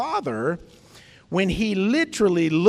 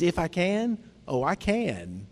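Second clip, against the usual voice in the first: understated, knowing comeback; twinkle in the eye. Acted. Jesus to the father, understated twinkle in the eye. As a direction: lightly turn the question back on him. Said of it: "with that twinkle in his eye".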